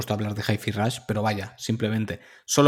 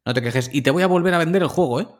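smug greedy company voice; 3 semitones higher, faster than usual. Retold or imitated. Mocks company reselling the game.

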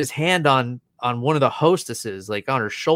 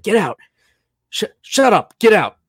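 sharp raised barks, higher and louder; angry shouting; 8 semitones higher, 5 dB louder than usual. Retold or imitated. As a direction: bark him out the door. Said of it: "just lost his shit".

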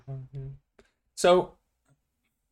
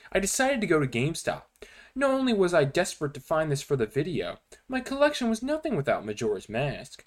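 dramatic creepypasta narration; story reading. Acted. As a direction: read it like a spooky story. Reads creepypasta aloud to friends.

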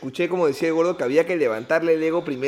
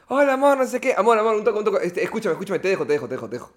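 higher, hurried fake-busy voice; busy rushed caller; 4 semitones higher, faster than usual. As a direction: brush off the girlfriend quickly. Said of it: "Y tú dile que estés ocupado".

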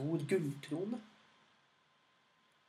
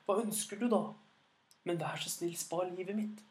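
pleading dragon; 4 semitones higher than usual. Acted. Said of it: "sa dragen".

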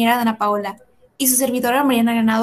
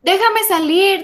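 shouting; 7 semitones higher, slower than usual. Acted. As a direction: scream to be let out. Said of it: "una voz en su cabeza gritó". (grito agudo y lento)

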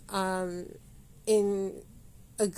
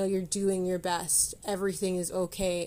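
gentle self-reassurance. Retold or imitated. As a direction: say it like giving yourself a hug. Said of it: "that soft pat in the back and that hug".

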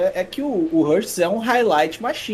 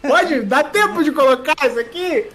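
excited disbelief; 6 semitones higher, slower than usual. Real, not acted.

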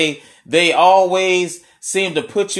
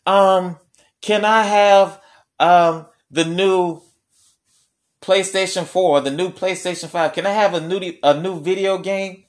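sweet talk; 3 semitones higher than usual. Retold or imitated. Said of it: "they're trying to sweet talk you".

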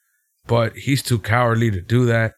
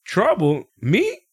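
mock innocent; 6 semitones higher, slower than usual. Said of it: "And then Kendrick goes".

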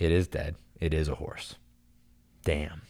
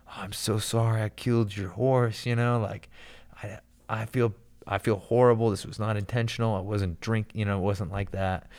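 pleading apology; 4 semitones higher than usual. Retold or imitated. Apologizing to the crying lady.

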